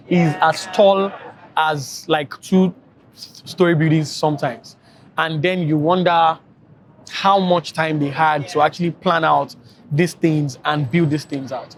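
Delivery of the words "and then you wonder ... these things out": slow, weary explaining; worn out after a long day; tired voice. Real, not acted. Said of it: "I'm sounding a lot more serious now because I'm tired".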